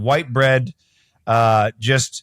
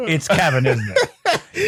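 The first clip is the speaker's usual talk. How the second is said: laughing tease; slower than usual. Retold or imitated. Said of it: "mocking the guy's name".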